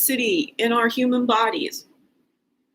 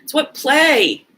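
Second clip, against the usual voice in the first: ordinary talk, nothing marked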